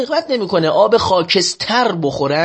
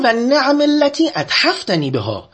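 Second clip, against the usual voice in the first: slow Arabic recitation; 7 semitones higher than usual. Acted. Quoting the Imam's Arabic prayer.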